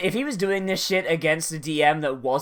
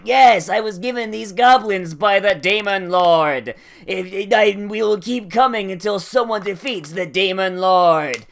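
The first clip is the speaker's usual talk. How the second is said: hammed-up villain; 3 semitones higher, 5 dB louder than usual. Villain monologue voiced by the DM.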